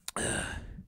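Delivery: soft, breathy sigh; short sigh. Real, not acted. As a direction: let a brief breath out. After the sarcastic rant.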